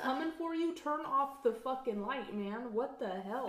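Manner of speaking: exasperated. Real, not acted. Viewer tells film characters to kill the light, exasperated. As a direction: scold the characters as if they could hear.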